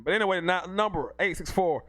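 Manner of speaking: ordinary talk, nothing marked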